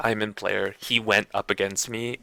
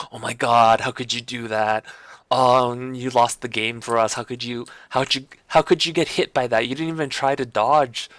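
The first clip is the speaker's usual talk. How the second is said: exasperated, higher-pitched gaming rant at a teammate; raging gamer; 4 semitones higher than usual. Retold or imitated. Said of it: "like that kind of a upset".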